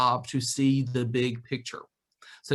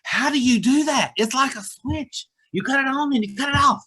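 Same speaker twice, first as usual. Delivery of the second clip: much higher, louder put-on voice of staff in disbelief; imitating amazed directors; 10 semitones higher, 5 dB louder than usual. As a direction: play the staff marveling at the boss. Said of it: "I had directors tell me".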